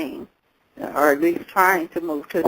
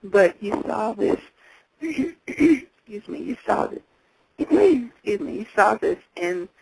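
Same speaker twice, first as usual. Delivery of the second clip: hoarse voice; 3 semitones higher than usual. Real, not acted. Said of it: "I'm kinda losing my voice".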